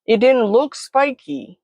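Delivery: put-on high, slow childlike protest; embarrassed and terrified. A narrator's reading. Embarrassed child excuses touching cactus, high distressed whine. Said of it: "equal parts embarrassed and terrified".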